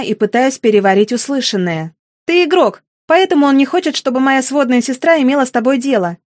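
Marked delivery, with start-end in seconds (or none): 2.3-6.2 pitched up, a touch of a breaking voice. Acted. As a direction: hold back upset, voice almost cracking. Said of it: "срывающимся голосом произношу я". (слегка срывающийся голос)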